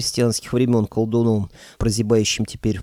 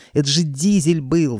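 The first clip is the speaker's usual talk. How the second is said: yelling; 5 semitones higher than usual. A narrator's reading. Clerk yelling at Koschei over his dead dog. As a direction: shout it in disbelief. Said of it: "заорал я".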